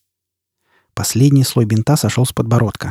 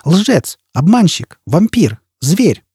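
shouted insults; 7 semitones higher, much slower than usual. Acted. Jiz keeps shouting insults.

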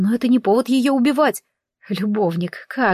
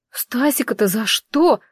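moaned; 2 semitones higher, slower than usual. Acted. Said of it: "простонала я".

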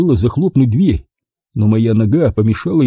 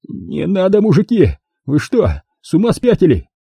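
mild panicked pleading; desperate plea; 8 semitones higher than usual. A narrator's reading. Diver begging the men not to shoot, mildly panicked. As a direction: beg them to stop. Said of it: "Отчаянно задёргался мостовой".

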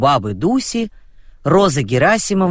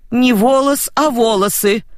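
yelling; 9 semitones higher than usual. Acted. Roza corrects Dusya's grammar, yelling. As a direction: bellow the correction at her. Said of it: "проорала Роза Герасимовна".

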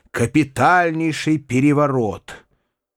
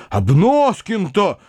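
excited repeat; 7 semitones higher, slower than usual. A narrator's reading. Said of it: "говорил дядя".

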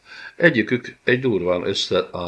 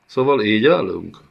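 louder, cold threat; menacing villain; 3 semitones higher, 6 dB louder than usual. Acted. Villain after being spat at. (fenyegető gonosz úr)

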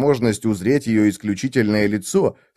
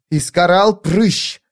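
sharp, higher, slow rebuke; hissed rebuke; 8 semitones higher, 4 dB louder, slower than usual. A narrator's reading. Sordiko rebukes Iskaral, sharp and higher. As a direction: snap his name at him. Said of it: "шикнула".

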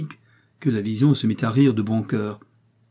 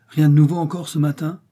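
higher, louder sharp question from the wife; wife pressing her husband, higher and louder; Léocadie asking; 6 semitones higher, 6 dB louder than usual. A narrator's reading. Wife nagging the pharmacist about news, raised voice. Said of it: "demanda Léocadie".

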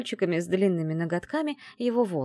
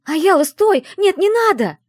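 loud, high, alarmed shout; 13 semitones higher, 12 dB louder than usual. A narrator's reading. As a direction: scream to stop her friend. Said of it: "в один голос закричали". (подруги в панике кричат: стой!)

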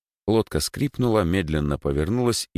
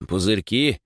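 higher, rising echo question; 5 semitones higher than usual. Acted. Rower checks what the boy saw, questioning. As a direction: repeat the word back as a question. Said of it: "переспросил Егор".

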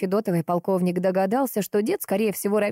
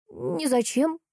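put-on sighing old man; 9 semitones higher, much slower than usual. A narrator's reading. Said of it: "вздохнув, ответил старик".

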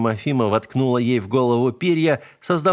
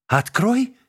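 much higher, rising outraged yelp; incredulous yell; 11 semitones higher than usual. A narrator's reading. Cat yelling back at the dying spirit, incredulous. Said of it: "завопил я".

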